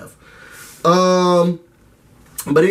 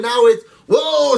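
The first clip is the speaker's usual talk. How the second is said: exaggerated mock alarm; mock shock; 3 semitones higher, slower than usual. Real, not acted. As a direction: ham up the outrage. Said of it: "mocking outrage".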